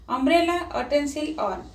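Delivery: "umbrella, utensil, on" opened on open vowels, stepping down; vowel-sound start. Shown as a demonstration. Teacher comparing pronunciation, "umbrella, utensil, on" begun on open vowels.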